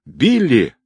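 urgent call for her henchman. A narrator's reading. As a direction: call him from across the room. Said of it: "позвала Нелли".

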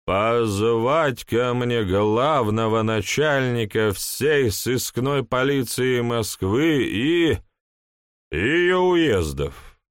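put-on slow tipsy drunk voice; town drunk. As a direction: slur it like a half-drunk man. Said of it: "полупьяный голос".

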